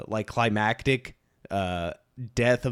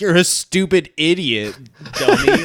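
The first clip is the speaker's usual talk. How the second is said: high mock insult, dummy squeaked very high and loud; childish taunt; 7 semitones higher, 4 dB louder than usual. Villain mocked as a schoolyard bully, very high squeaky jeer.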